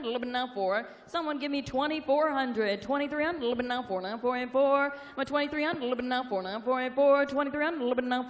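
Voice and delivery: rapid rolling auction chant; auctioneer. Real, not acted. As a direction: rattle off the bids like an auctioneer.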